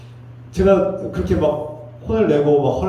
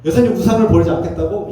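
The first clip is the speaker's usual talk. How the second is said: acted indignant scolding, higher pitched; angry scolding; 6 semitones higher than usual. Pastor imagines scolding Naaman over his idols, angry. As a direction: take someone to task in raised pitch. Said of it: "이렇게 막 화낼 수 있어요".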